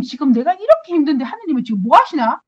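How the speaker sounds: acted-out exasperated questioning; demanding complaint. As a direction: complain as if taking someone to task. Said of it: "빠지듯이 그랬어요".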